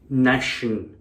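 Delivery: "Nation" with the short a of "nationality"; split-off syllables. Shown as a demonstration. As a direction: say "Nation" as NASH-un. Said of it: "That's their nationality".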